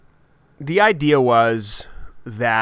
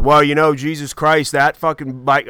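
hammed-up Maine biker voice; gruff-talking biker with an accidental Maine accent; botched Maine accent; 3 semitones higher than usual. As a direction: slip into a bad Maine accent. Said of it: "Why, why am I doing the Maine accent?".

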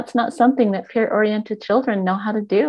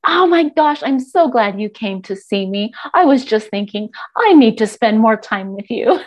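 delighted mom; 5 dB louder than usual. Retold or imitated. Parent voiced delighting in child.

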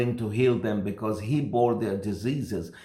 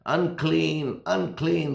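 calling out higher, warning passers-by; lepers' shout; 7 semitones higher, slower than usual. Retold or imitated. Lepers warning passers-by on the road, a higher calling-out cry. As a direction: cry the warning out, drawn and falling. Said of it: "they used to shout".

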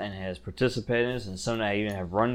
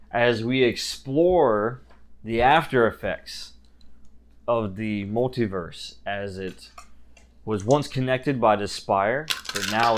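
slow dramatic announcer. Acted. Announces the next volume.

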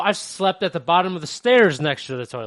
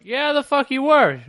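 mock scoffing friend; 10 semitones higher, 5 dB louder than usual. Friends voiced in story.

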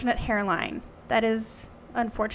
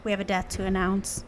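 hushed, lower-pitched news of a death; solemn announcement; 3 semitones lower, 9 dB quieter than usual. Pretend. Host announcing the Queen's death, mock-solemn and hushed. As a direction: soften gravely with pauses.

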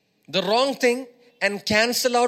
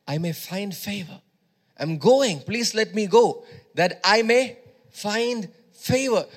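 confident Ruth. Retold or imitated. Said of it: "She spoke in faith".

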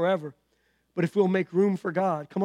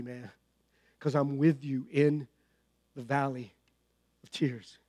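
voicing God; 3 semitones lower than usual. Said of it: "God would say something like this".

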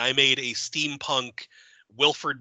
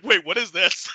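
confused; 5 semitones higher, 4 dB louder than usual. Retold or imitated. Retold confusion at ending.

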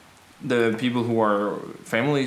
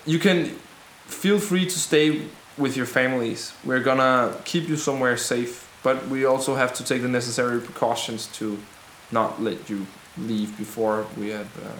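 rebel leader's speech. Acted. Rebel tells families to wait safely, measured reassuring speech. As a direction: reassure a crowd in measured phrases.

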